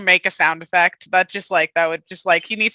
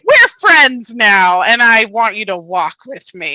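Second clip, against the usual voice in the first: forceful; 5 dB louder than usual. Acted. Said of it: "the forceful".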